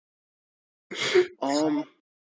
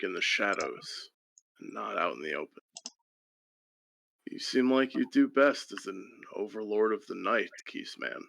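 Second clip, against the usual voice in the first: lower, wise mentor voice; 3 semitones lower than usual. Acted. Player voices Deacon, lower and wise.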